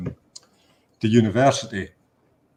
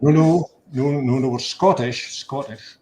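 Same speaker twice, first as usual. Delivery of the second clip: louder and higher, quick denial; hasty protest; 4 semitones higher, 5 dB louder than usual. Retold or imitated. Andy insisting to the German guard, a raised hasty denial. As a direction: insist you're not English, raised voice.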